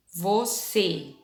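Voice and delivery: "você" in two syllables, falling on a closed Ê; closed vowel. Shown as a demonstration. Teacher repeating the word for pupils, closed vowel. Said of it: "a mesma vogal foi acentuada".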